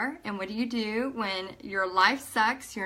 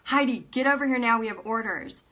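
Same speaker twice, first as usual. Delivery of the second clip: retold urgent summons, a little quicker; insistent. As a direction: repeat the order with more push on the opening. Husband repeats the call more insistently.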